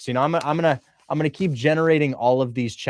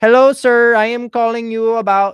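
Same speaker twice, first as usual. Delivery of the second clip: loud, high, slow, belted Filipino accent; 10 semitones higher, 9 dB louder than usual. Imitating an untrained cold caller opening a phone call: Filipino accent. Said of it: "Hopefully my Filipino accent's on point".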